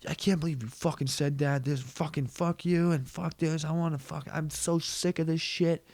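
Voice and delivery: hammed-up cursing dad voice; mock angry dad. Dad still fighting with his girlfriend in the car, mock furious.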